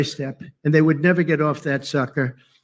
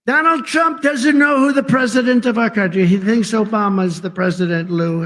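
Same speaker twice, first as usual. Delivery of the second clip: higher, louder mock news headline; 4 semitones higher, 4 dB louder than usual. Mocking the press headline, loud and high. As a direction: ham up the headline. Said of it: "they go out and they say".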